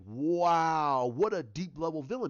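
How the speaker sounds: loud, drawn-out awe; amazed reaction. Acted. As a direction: stretch it out loudly, like a stunned viewer. Acts out amazed audience reaction.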